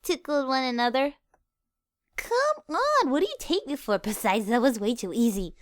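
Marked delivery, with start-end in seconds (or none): 2.2-4.0 mock offense.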